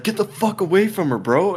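high-pitched mock yell at the attacker; retold angry yell. Confronting the man grabbing the lady, high angry yell. Retelling ordering attacker away.

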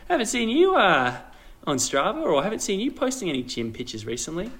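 high, questioning mock friend voice; playful imitation of a friend asking; imitating a friend. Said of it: "be like".

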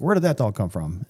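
lightly imitated German accent; retold line in a mild German accent. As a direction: quote him with a hint of a German accent. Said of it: "he had that German accent".

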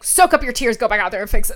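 boss ordering her. Retold or imitated. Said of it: "my boss was basically like".

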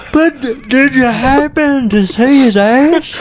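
Green Mile voice. Retold or imitated. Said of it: "Like that Monster Todd from Green Mile".

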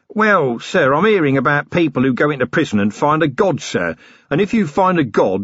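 eager, simple-minded prisoner voice; lightly voiced dim henchman, talking up; simple working man. Flutter speaks to Vimes.

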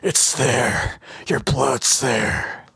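slow, low voiced tough guy; Stallone impression. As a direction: drag it out like Rambo. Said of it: "One more time".

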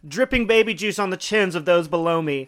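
laughing through the words; cracking up while talking. Real, not acted. Breaks up laughing mid-line.

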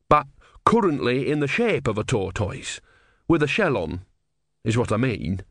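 put-on simple, wide-eyed young monk; naive young novice. Brother explains.

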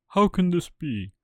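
loud, high stunned cry; can't believe his eyes; shocked. Acted. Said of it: "said Geppetto in shock".

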